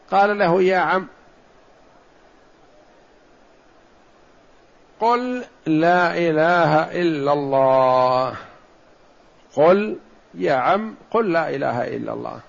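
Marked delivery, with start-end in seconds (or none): 0.6-8.3 slow, tender coaxing of a dying uncle; gentle plea. Retold or imitated. Prophet gently urging dying uncle to say it, slow and tender. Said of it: "تلطفا به". 9.5-12.4 gentle repeated plea. Retold or imitated. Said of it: "تلطفا به".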